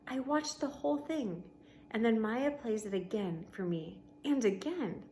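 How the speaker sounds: steady read-aloud voice for the class; story narration. A narrator's reading. Teacher reading a novel to her class, storybook narration.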